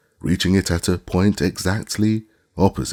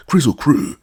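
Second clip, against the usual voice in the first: high, loud shout of the words; called out; 10 semitones higher, 7 dB louder than usual. A narrator's reading. Scraps calling out to the woozy, shouting loudly. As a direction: yell it out to anger him. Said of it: "the glass cat said".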